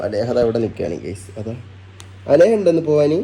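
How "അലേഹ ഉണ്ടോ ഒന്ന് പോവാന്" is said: calling out. Real, not acted. Calling to child Aleha to come. (കുട്ടിയെ ഉറക്കെ വിളിച്ചു ചോദിക്കുന്നു)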